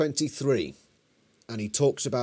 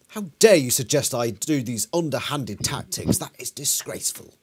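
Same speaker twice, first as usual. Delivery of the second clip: mock indignation. Plays an indignant accused controller.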